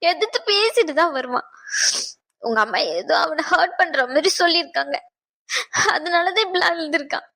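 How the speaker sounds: put-on weeping mother hurt for her child; tearful. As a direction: speak through tears. Mother weeping about hurt son.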